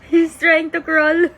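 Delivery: high, loud and drawn out. Real, not acted. Delighted parent watching baby crawl. (tuwang-tuwa, mataas at pahaba)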